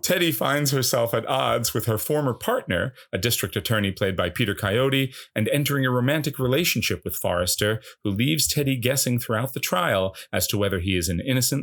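measured, announcer-like plot summary; film synopsis read. A narrator's reading. Host introducing the film to listeners, measured synopsis read.

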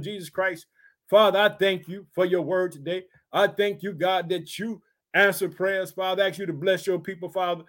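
earnest, measured prayer voice; closing prayer. Real, not acted. Preacher closes the sermon praying for his listeners, earnest. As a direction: pray over the people humbly.

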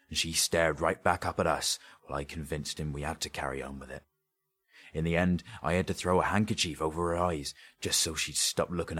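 working-class dialect, animated storyteller; earnest rough-speaking thief justifying himself; grave robber confessing. Acted. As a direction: insist on the grisly tale. Sketch tells the robbery in dialect.

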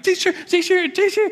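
put-on very high, urgent child calls; kid calling teacher. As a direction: call out like a panicking first grader with his hand up.

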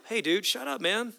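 a hint of a high, mock-stern hush; scolding bystanders. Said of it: "they're trying to shut him up".

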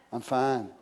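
sulky low, soft reply; offended. Acted. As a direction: act out curt, withdrawn hurt. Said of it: "when we get offended".

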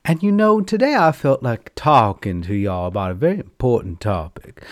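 flamboyant auntie greeting, darling; sassy drag queen hello; campy drag queen. Acted. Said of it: "your gay auntie".

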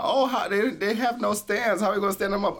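mocking whiny voice. Mocking complaint, quoted talk.

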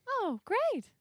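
put-on wholesome 1950s kid. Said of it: "she goes".

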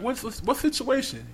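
high, stammering panic; jittery high stammer; nervous. Retold or imitated. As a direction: fumble the words, caught out. Nervous reply to the dad.

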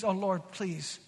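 hushed acted entreaty; interceding plea. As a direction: plead gently, imitating a humble intercessor. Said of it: "Moses intercedes".

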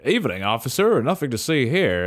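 lightly acted casual greeting to police; feigned innocence. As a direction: play it lightly, as if nothing is wrong. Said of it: "he's gonna be like".

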